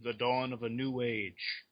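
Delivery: slow, lightly voiced robot villain line; a hint of Ultron, drawn out; mock Ultron. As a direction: intone it slowly like a menacing machine. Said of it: "Ultron's there saying".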